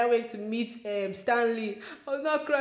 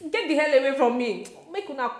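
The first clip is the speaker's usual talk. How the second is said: annoyed snap; 4 semitones higher, 4 dB louder than usual. Retold or imitated. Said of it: "I'm just like".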